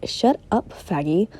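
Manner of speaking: mock dismissive cut-in; Jack interrupting. Boy interrupts Piggy gathering names, dismissive. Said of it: "Jack interrupts him".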